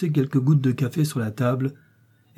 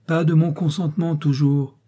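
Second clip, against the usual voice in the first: understated fury, voice raised in pitch; furious; 5 semitones higher, 3 dB louder than usual. A narrator's reading. Mother refusing consent to the marriage, contained fury. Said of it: "dit Victoire en fureur".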